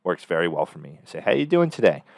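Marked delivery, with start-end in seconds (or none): 1.2-2.0 friendly excited tone. Shown as a demonstration. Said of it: "friendly, warm, enthusiastic, energetic, and excited tone".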